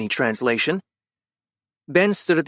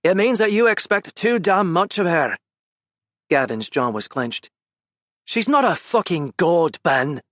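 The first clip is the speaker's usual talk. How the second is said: raised, intense reproach, higher pitch; heated scolding; 6 semitones higher than usual. Acted. Gavin confronting Ben about her, heated reproach. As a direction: berate him for not seeing it.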